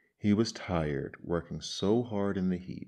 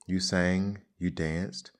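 sneering; 6 dB louder than usual. Acted. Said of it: "sneered the ant".

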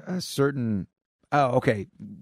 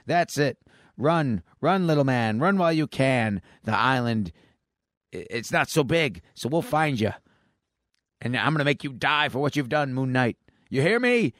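raised-pitch taunting menace, climbing at the end; acted villain threat; 4 semitones higher than usual. Gun-wielding woman threatens escapee and Moon Knight, mock menacing. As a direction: taunt the fleeing man, then threaten revenge.

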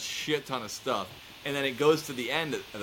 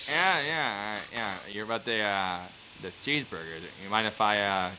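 Norm Macdonald; 3 semitones lower than usual. Retold or imitated. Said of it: "Norm Macdonald's been sleeping on the couch".

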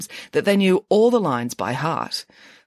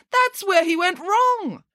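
much higher, slow and pointed; knowing pig; slower than usual. A narrator's reading. Nanny Piggins explains to Samantha, high and smug. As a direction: lay it out smugly.

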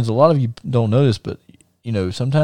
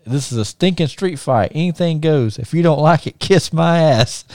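mock angry wrestling promo; 5 semitones higher than usual. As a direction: bark it at the crowd like a heel cutting a promo. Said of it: "cuts a promo on the ref and says".

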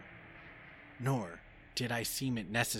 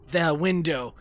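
higher, loud panicked shriek; terrified scream; 8 semitones higher, 14 dB louder than usual. A narrator's reading. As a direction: cry out at the window in terror. Thing at the window.

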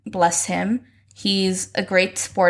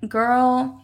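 put-on sassy girl; 4 semitones higher than usual. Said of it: "obviously not like this".

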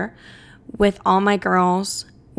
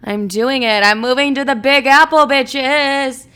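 excited; 4 dB louder, slower than usual. Retold or imitated.

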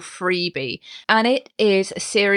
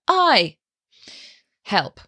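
strong voice. Shown as a demonstration. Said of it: "using that sound".

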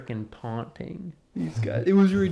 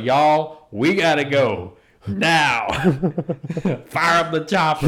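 mock Queen; 3 semitones higher, 7 dB louder, slower than usual. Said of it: "she's like".

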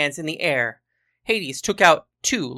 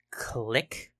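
low, soft click of a mechanism; understated mechanical click; catapult click; 5 semitones lower, 9 dB quieter than usual. A narrator's reading. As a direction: drop low and quiet for the click. Narrator voices the catapult winding.

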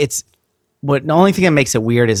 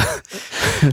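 nervous laugh; 8 semitones higher, 5 dB quieter than usual. Real, not acted. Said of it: "Little tension in the voice there".

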